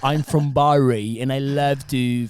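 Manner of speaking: put-on Italian putting on a British accent for fun; mock British accent. Teenager showing off his British accent to the podcast guests. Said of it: "speaking like".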